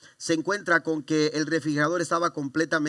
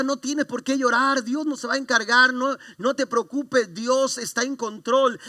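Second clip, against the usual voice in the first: fervent reassurance; 7 semitones higher, 4 dB louder than usual. Retold or imitated. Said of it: "yo le decía a mi esposa".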